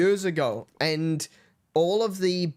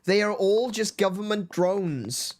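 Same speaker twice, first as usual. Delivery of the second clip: mock conspiracy theorist; 3 semitones higher than usual.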